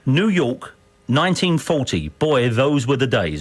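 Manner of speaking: lightly put-on American accent. Shown as a demonstration. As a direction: model the line with an American twang. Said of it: "in your best American accent".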